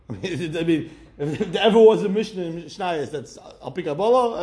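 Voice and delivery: laughing through the line; amused, chuckling while talking. Real, not acted.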